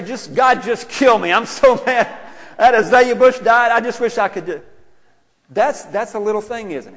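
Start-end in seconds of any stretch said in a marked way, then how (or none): 0.0-4.6 high, loud, hammed-up fit over a dead bush; exaggerated whining rage, much higher and louder; mock tantrum. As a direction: stomp around and rant like a spoiled child. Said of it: "You just stomp around and say".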